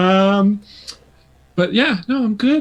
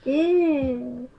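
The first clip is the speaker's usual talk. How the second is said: flustered laughing; 13 semitones higher, 8 dB louder, slower than usual. Real, not acted. Flustered by compliments.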